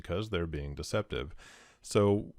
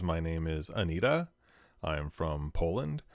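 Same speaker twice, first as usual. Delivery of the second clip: imitating her statements with a rise at the end of each, "Anita" and "Poland" lifted like questions; question inflection. Coach imitating the interviewee's statements, with a questioning rise on each. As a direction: mimic her, ending "Anita" and "Poland" upward as if asking. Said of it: "She uses the question inflection when she talks".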